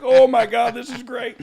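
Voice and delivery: loud gush at the start, high throughout; giddy happy. Retold or imitated. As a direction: play up his starstruck delight. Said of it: "was just happy to be here".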